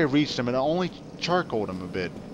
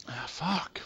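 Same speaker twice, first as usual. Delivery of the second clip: whispered curse; 9 dB quieter than usual. Real, not acted. Quiet curse while gaming.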